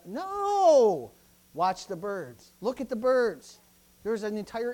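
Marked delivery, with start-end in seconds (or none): 0.0-1.1 sharp no. Real, not acted. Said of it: "rejecting his own imitation".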